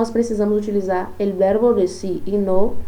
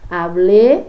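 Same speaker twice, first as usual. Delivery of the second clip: Hablé said loud with a rising tune; a teacher singling out Hablé; emphasized hablé; 7 dB louder than usual. Shown as a demonstration. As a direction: lift and stress Hablé. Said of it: "ação de falar".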